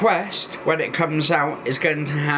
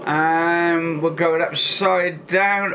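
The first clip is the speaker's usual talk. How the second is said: on a roller coaster; 2 semitones higher than usual. Real, not acted. Riding VR roller coaster, cave.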